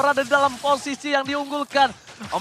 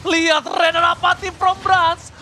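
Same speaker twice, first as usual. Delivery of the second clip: excited shout; 5 semitones higher, 3 dB louder, much slower than usual. Real, not acted. Caster hyping a team fight.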